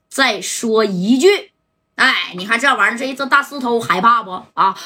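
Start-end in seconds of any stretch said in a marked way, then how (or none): 0.1-1.5 slow, deliberate threat; each syllable dragged out as a warning; slow menace. Acted. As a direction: dare him to say one more word. Dai threatens with the rock.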